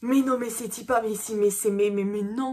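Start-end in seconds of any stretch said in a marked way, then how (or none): 1.7-2.5 overwhelmed disbelief. Real, not acted.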